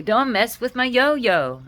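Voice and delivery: playful pet talk. Retold or imitated. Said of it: "I used to go around and say".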